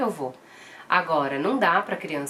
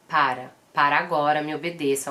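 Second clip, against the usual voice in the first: short firm commands, a bit louder; firm stern command; 4 dB louder than usual. Shown as a demonstration. Mother sternly ordering her toddler to stop, firm and loud. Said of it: "falar bem firme e brava".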